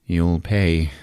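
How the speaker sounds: slow, low, halting menace; vengeful monster. Acted. Monster threatening the escaping heroes, slow low voice. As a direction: draw out the threat with heavy pauses. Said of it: "Porno's like".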